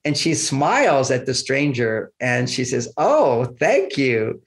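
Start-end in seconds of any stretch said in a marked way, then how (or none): 3.0-4.4 charmed thank you. Retold or imitated. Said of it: "I've heard that tone of voice".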